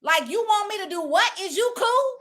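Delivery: squeaky disbelieving ask to God; casual talk to God. Retold or imitated. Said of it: "I done said before".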